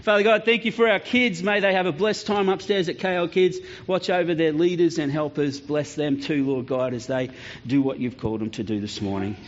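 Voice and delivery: put-on gentle prayer over the children. Pastor prays over the kids before they go upstairs.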